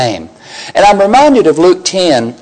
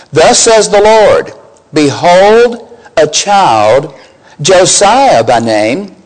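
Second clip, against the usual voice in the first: prophet crying out; slower than usual. Acted. Young prophet crying out against the king's altar, declaiming. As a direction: proclaim it like a prophet of doom. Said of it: "he cried out against the altar".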